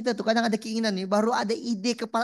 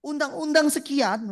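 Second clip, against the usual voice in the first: a hint of a pompous president, higher pitched; lightly ape an official giving a speech; mock presidential speech; 6 semitones higher than usual. Neighbour at the coffee stall mimicked talking like a president, mock pompous. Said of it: "macam presiden gitu loh ngomong tuh".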